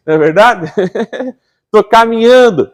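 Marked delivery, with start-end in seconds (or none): 1.7-2.7 high, louder mock reply; eager believer. Preacher voicing a believer answering him, high and eager. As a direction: play the obedient member brightly. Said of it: "sou um bom em teatro".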